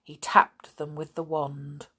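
ordinary delivery, nothing marked

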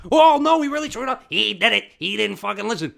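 very high, loud squeaky voice; panicked little sidekick. Acted. Little monkey blaming the ostrich to the boss, frantic squeal. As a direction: blame your partner in a panic. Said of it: "the monkey's the little guy".

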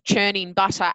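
put-on slow prim old lady; lightly voiced old lady. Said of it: "my old lady voice".

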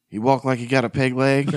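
half-laughing retelling; laughing through the quote. Retold or imitated. Dad asking about the teacher, said while laughing. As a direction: chuckle through the words.

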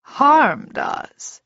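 cold, measured retort with contained rage; a hint of offended formality; Etri. A narrator's reading. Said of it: "he said quietly".

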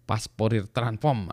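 mock Sundanese "pas porir", p replacing f; slow joke Sundanese reading of Fourier; Sundanese accent. Shown as a demonstration. Lecturer joking he might be Sundanese, Sundanese accent on Fourier. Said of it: "jangan-jangan orang Sunda nih saya".

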